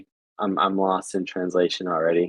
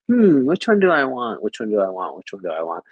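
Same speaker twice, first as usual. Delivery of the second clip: retold pondering. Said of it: "I'm like".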